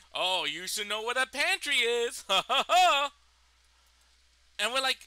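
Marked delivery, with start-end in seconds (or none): 0.1-3.1 imitating a smug professor, ending in a loud mock laugh. Mocking the sexist professor with a loud smug laugh. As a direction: ham up his condescending chuckle. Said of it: "he constantly called women lazy and tell them, like".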